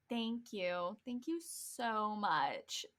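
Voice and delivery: quietly retold thanks, dragged out slowly; icy thanks. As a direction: imitate stiff, offended thanks. Retells teacher's blank-stare response.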